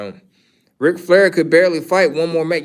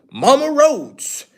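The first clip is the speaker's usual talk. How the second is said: slow, higher teasing drawl; mocking nickname; 9 semitones higher, slower than usual. Real, not acted. Teasing Cody Rhodes' mama with a slow mocking call. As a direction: savor the name like a running joke.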